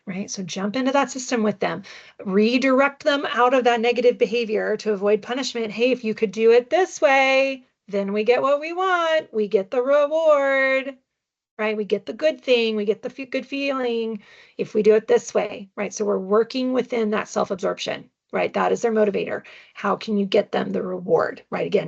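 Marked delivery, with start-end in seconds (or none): 5.7-15.7 slow, higher coaxing parent voice. Pretend. Parent coaxing a toddler toward the reward, slow and higher. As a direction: sell the reward to the child, slowly.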